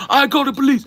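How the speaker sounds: high, loud screamed threat in a put-on Asian accent; shrieking caricature of an angry customer's Asian accent; mock thick Asian accent. Barista imitating customer threatening police, screaming in Asian accent. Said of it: "with a very thick accent".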